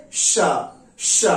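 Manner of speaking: sustained श hiss; श as a long hiss, tongue folded near the palate; sh sound. Shown as a demonstration. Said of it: "बोलेंगे हम कैसे?". (लंबी श ध्वनि)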